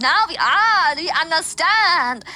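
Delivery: acted dawning realisation, drawn-out ahs; mock lightbulb moment with swooping ahs; sudden understanding. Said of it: "And it's like".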